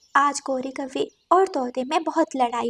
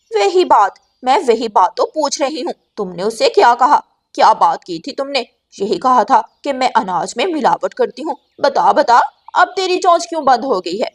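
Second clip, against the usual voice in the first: louder, pressing interrogation; angry scolding; 7 dB louder than usual. Acted. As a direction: corner him with each question. Gauri confronts the parrot.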